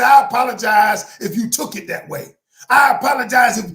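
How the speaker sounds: wrong way to apologize. Shown as a demonstration. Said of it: "Some people might say".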